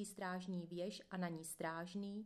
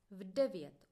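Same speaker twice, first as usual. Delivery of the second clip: "V devět" said louder and flatly final; deadpan repeat; 6 dB louder than usual. Retold or imitated. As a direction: repeat it stone-faced, daring him to argue. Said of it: "opakuji s kamennou tváří".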